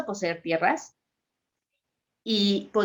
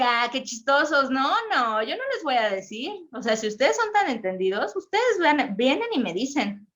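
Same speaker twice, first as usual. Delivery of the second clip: mocking king; 4 semitones higher than usual. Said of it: "él les dice".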